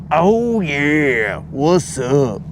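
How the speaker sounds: a lightly voiced Kool-Aid Man's hearty "oh yeah"; a hint of the Kool-Aid Man's booming greeting. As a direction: burst in cheerfully as the Kool-Aid Man. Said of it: "the Kool-Aid man just popped in and he's like".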